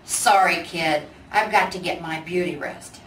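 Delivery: a lightly voiced sleepy old bear; grumpy big bear brushing off the kid; lightly gruff bear voice.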